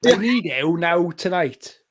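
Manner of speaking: slow, stretched Welsh-accented lyric; overly Welsh. Shown as a demonstration. Bandmate demonstrating the Welsh line, slowly and overly Welsh. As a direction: draw out a mock Welsh line. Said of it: "the overly Welsh line".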